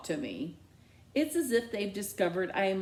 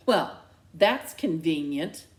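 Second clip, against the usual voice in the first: louder, bitter sarcasm; 6 dB louder than usual. Acted. Dad bitterly dismissing the amnesia story. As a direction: spit it out dryly. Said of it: "my dad says bitterly".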